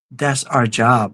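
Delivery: low, slow and steady; deep, unhurried reassurance to his wife; calm, resigned. Retold or imitated. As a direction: say it slowly, like a simple fact. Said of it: "I said".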